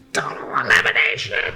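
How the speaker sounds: hammed-up announcer call, held back in volume; Joey Styles. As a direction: repeat the announcer's cry, reined in. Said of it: "that was my Joey Styles impression".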